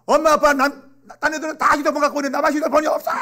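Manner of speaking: high, loud complaint that speeds up; acted child's tantrum. Child protesting to mom and dad about having no phone, loud tantrum.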